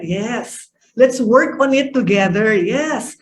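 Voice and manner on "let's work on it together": collaborative. Shown as a demonstration. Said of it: "becomes more collaborative".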